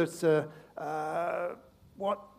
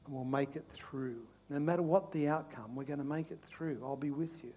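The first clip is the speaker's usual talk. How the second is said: gentle shepherd; 5 dB quieter than usual. Acted. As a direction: soothe them quietly. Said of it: "The shepherd says".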